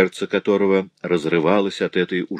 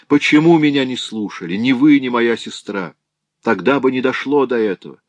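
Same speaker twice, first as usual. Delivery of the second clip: anguished outcry; 6 semitones higher, 5 dB louder than usual. Acted. Daughter accuses mother in despair.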